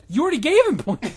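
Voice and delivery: laughing through the words, fast. Real, not acted. Laughing at the fan fiction's point tally. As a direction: breaks up mid-line, giggling.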